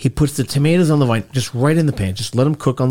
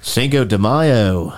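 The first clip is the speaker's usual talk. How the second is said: Puerto Rican accent; much slower than usual. Shown as a demonstration. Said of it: "Let me try the Puerto Rican way".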